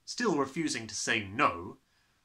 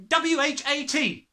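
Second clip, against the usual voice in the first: squealed; 9 dB louder than usual. Acted. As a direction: squeal each letter out in pain. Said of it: "he squealed".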